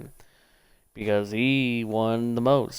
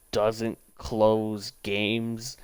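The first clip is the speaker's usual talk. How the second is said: mocking quote; much slower than usual.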